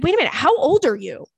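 high, panicky disbelief; a young girl panicking at a number; mock panic. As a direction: act out a girl panicking over the math. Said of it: "Like, panicking".

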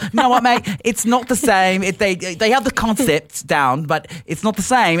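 put-on a mild British accent; understated British accent. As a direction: talk like a Londoner. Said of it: "I said to myself".

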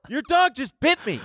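high-pitched mock-indignant yelp; shocked outcry. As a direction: act out a bitten man's shock. Bitten man's outcry, acted.

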